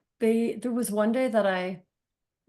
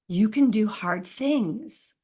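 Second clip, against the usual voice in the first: put-on gentle child's words; 2 semitones higher, much slower than usual. Son's words to crying mom.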